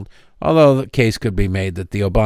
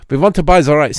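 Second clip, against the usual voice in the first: put-on French accent; 4 semitones higher, faster than usual. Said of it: "Somebody criticized my French accent".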